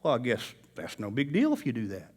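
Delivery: soft, low coaxing voice; whisper-like temptation in your ear; lightly voiced sly inner voice; tempting little voice. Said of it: "that little voice goes".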